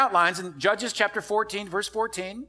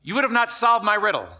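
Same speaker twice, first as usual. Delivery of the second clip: angry retort; 4 semitones higher, 5 dB louder than usual. Retold or imitated. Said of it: "so he's angry".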